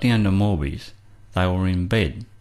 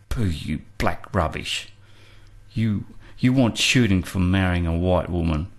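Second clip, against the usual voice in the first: sneering; 2 semitones lower than usual. Retold or imitated. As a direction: spit it out with scorn. With a sneering laugh.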